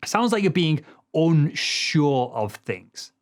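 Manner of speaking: slow, with the pitch falling away on "things"; voice going down. Shown as a demonstration. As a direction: let "unsure of things" step downward slowly. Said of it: "See how my voice is going down here?".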